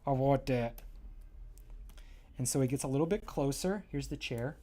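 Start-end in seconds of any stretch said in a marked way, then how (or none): 0.1-0.8 curious pillow. Acted. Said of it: "That's how I say, he would say".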